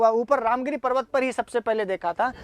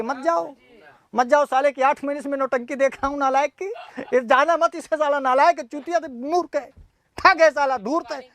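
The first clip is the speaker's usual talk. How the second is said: mildly indignant, hammed-up refusal; mock scolding; 3 semitones higher than usual. Mountain refusing to let the nuisance yaksha's messenger go, mock scolding. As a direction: rattle off mock insults as a fed-up friend.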